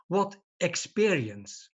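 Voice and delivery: experience slowed and leaned on; stress on experience. Shown as a demonstration. Speaker stresses experience for the audience, emphatic. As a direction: lean hard on the word experience. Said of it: "I emphasize the word experience".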